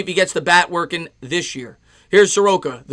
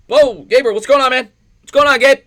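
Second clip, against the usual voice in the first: excited greeting; 7 semitones higher, 7 dB louder than usual. Real, not acted. Greeting a viewer in chat.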